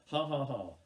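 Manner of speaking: spoken, measured ha-ha-ha; demonstrated laugh. Shown as a demonstration. Poet showing the audience how to join in, deliberate spoken laugh. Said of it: "you need to go".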